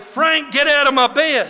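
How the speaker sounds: mock yell. Retold shout at Frank.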